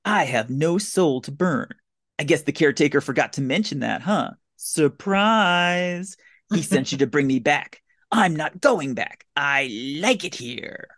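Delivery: lightly hammed villain gloat; villain speech. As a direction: gloat slowly like a movie villain. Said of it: "then he does this villain speech".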